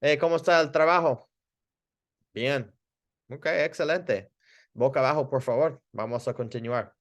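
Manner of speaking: quick, bright "¿cómo está el trabajo?" then settle; breezy check-in with a patient; upbeat small talk in Spanish; friendly clinic chat. Shown as a demonstration. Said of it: "Kinda did that different".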